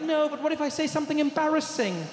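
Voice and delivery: a hint of a worried Steve; anxious friend. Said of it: "He's like".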